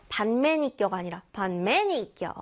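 반매니껴 with Gyeongsang pitch rise and fall; dialect intonation. Shown as a demonstration. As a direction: contrast plain and dialect 반매니껴. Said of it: "소리의 높낮이의 변화를 주는". (억양을 살려서)

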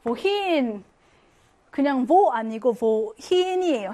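slow, emphatic "wohin", set against plain "wo"; teacher underlining the "hin" in "wohin"; emphasis on WOHIN. Shown as a demonstration. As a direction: hit "wohin" firmly, drawing out "hin". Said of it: "제일 중요한 거야".

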